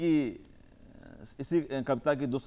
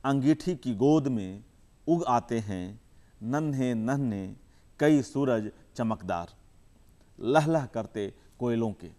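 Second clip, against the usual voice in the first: measured recital with long pauses between phrases; poem recitation; 4 dB louder than usual. Acted. Poet reciting his poem to the audience, measured and unhurried. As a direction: savour each image, let the lines breathe.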